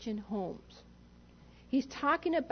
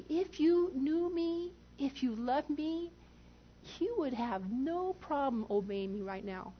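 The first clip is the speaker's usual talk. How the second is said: gentle tone; 5 dB quieter than usual. Retold or imitated. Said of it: "That wasn't it".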